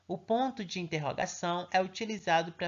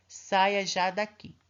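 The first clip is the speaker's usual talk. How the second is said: commanding example; 4 dB louder, much slower than usual. Shown as a demonstration. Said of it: "Ele está dando uma ordem".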